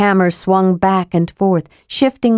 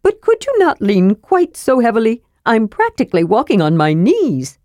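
lightly higher, mildly strained plea; kender Tass complaining; 4 semitones higher than usual. Acted. Kender Tass to heavy dwarf, mild higher complaint. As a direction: ease off, I'm sinking here.

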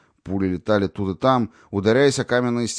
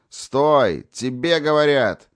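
louder, higher bark to halt; angry command; 7 semitones higher, 5 dB louder, much slower than usual. A narrator's reading. Guard shouting after fleeing Natasha, angry command. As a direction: order her to stop, threatening. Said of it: "снова раздался крик".

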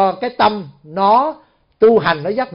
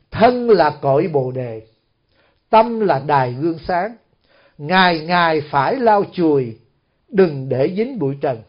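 measured, slightly lowered verse recital; verse recitation; 3 semitones lower than usual. Acted. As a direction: recite line by line with long pauses.

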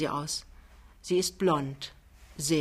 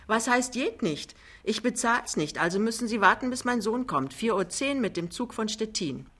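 höhere, widerspenstige Widerrede; empört; 4 semitones higher than usual. Acted. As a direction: pikiert dagegenhalten, mit höherer Stimme. Dame streitet mit dem Chauffeur. (empörte, höhere Stimme)

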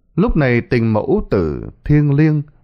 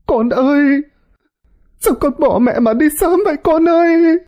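very high, loud anguished wail; a mother's piercing lament, louder and louder; 4 dB louder than usual. Acted. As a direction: cry out for her dead sons. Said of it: "kêu gào thảm thiết".

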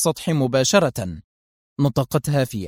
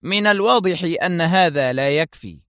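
coldly stern; 4 semitones higher than usual. Acted. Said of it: "في برود صارم".

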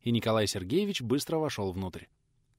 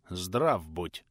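lower, stony voice of a stern prince; cold greeting; 4 semitones lower than usual. Acted. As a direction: greet him coldly, like carved stone. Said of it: "холодно отвечал высокий мужчина".

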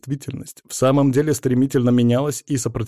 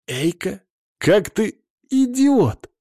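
high outraged cry; angry shout; 8 semitones higher, much slower than usual. Acted. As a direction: shout in relief and fury. Eika angry after saving him.

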